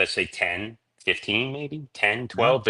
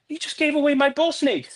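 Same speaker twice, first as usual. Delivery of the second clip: high, laughing mock protest; laughing mock outrage. Husband laughs retelling his outrage at wife giving his snake away. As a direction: squeal it out through laughter.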